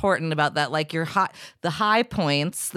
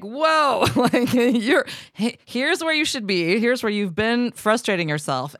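mock amazed exclamation, higher, easing down by the end; retold surprised teachers; 5 semitones higher, slower than usual. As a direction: imitate the impressed vocal coaches, starting high and settling. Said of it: "they were like".

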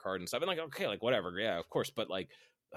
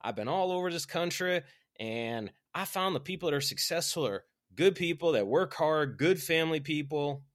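put-on higher-pitched, louder Alabama accent; A L Williams; 7 semitones higher, 5 dB louder than usual. Speaker imitating an eighties motivational talk, Alabama accent. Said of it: "very Alabama accent".

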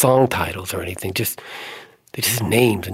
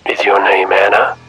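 man's question; 6 dB louder than usual. Acted. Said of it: "He asked".

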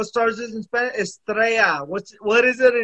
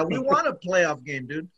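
imitating Wikipedia. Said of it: "Wikipedia says".

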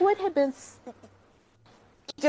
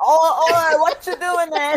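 much higher mock holler; imitating a nosy heckler calling out; heckling bystander voice; 8 semitones higher, 4 dB louder than usual. Soccer player interrupting Arthur, high mock holler.

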